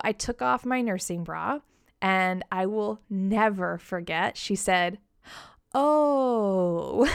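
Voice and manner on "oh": loud surprised oh in a put-on voice; consultant's shocked oh, acted out; mock shocked oh. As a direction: blurt it like a startled consultant. Imitating the shocked lactation consultant.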